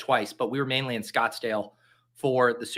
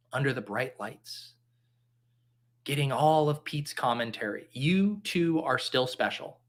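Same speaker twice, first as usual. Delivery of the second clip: mock heartfelt pep talk. Comforting the sad overflow drafters, mock tender and sincere. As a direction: play it like a sappy counselor, half joking.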